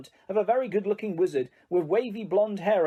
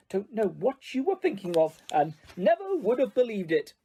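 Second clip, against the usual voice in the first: grumbling mutter; 4 semitones higher than usual. Acted. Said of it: "she muttered things like".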